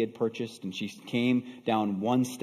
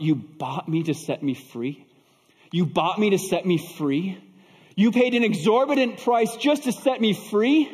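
acted sob, rising with each question; emotional, pitch climbing as it repeats; tearful disbelief; 8 semitones higher, 6 dB louder than usual. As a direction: build from hushed wonder to overcome astonishment. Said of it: "through her tears, she sobbed".

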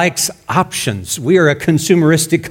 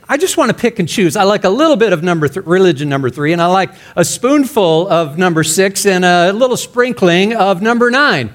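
lightly voiced picky customer, pitched higher; lightly mock someone ordering religion like coffee; choosy religion shopper; 3 semitones higher than usual. Preacher mimicking people picking and choosing religions, lightly mocking. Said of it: "and we say".

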